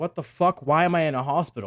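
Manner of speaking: panicked, freaked-out voice. Retelling waking up in a hospital: retelling own freak-out. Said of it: "I was freaking out".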